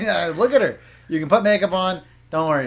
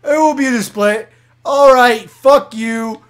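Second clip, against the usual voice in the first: mock receptionist; 6 semitones higher, 6 dB louder, slower than usual. Voicing receptionist NPC.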